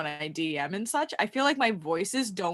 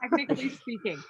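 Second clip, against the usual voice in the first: whispered aside; 5 semitones higher, faster than usual. Real, not acted.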